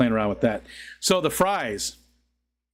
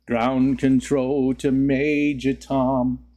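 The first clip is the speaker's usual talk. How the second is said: voice changer effect; much slower than usual. Acted. Voice changer filter sings a line from a rock song.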